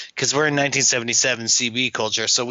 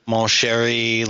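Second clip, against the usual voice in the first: mock Cajun accent; slower than usual. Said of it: "French, you know, Cajun type".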